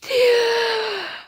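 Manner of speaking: long, high-pitched laugh. Real, not acted. Reader reacting to Bruce on the phone, high laugh. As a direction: let out one drawn-out, high laugh.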